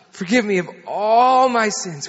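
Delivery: loud mock-fervent prayer line, "all" stretched; hammed-up plea, leaning hard on "all"; retold prayer blown up for comedy; mother leading prayer. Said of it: "You just pray after me".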